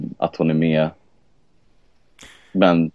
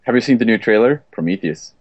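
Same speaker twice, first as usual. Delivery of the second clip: attempted American English accent; American accent demo. Shown as a demonstration. Co-host saying the title in a sentence on request, American accent. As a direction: try an American accent, pausing before the film title. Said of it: "Säg, säg det i en mening".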